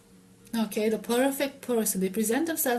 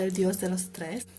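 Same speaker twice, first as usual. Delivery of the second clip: Spanish words in an American accent; 3 semitones lower, 4 dB quieter than usual. Real, not acted. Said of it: "I apologize for my, uh, Spanish pronunciation".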